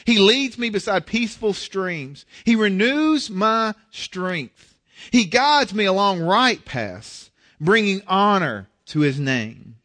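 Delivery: measured reading of the psalm; scripture reading. Shown as a demonstration. Pastor reading Psalm twenty-three aloud to the congregation, measured. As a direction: read the psalm to the church with care. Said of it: "Let me read it in a different translation".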